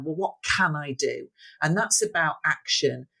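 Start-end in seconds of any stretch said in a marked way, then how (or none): 0.0-1.3 can held long and weighted; stress on can. Shown as a demonstration. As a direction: lean hard on the word can. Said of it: "focus much more on the word can".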